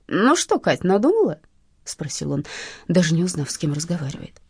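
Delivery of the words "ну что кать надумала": smug thug. Acted. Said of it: "Самоуверенный, хамский".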